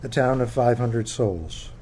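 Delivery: measured book reading voice; reading aloud. Acted. Author reading chapter one to an audience, measured. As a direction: read it like opening a memoir.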